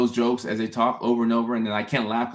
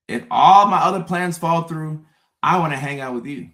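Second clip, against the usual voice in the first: higher and louder, mock-bright; exaggerated explaining; 5 semitones higher, 6 dB louder than usual. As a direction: spell it out like it's obvious. Mock explaining a friend's logic.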